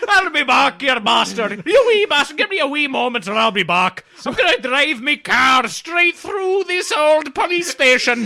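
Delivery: loud, high Scottish-Arnold shout; Scottish Schwarzenegger. Pretend. Asked for an English Schwarzenegger, a shouting Scottish Arnold. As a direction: bellow it like a drunk Glaswegian Terminator. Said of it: "do it like an English Schwarzenegger".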